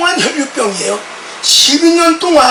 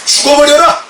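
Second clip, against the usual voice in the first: loud, raised cry of rebuke; retold angry shout; 4 semitones higher, 3 dB louder than usual. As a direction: bark it at the couple like a furious pastor. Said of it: "큰 소리로".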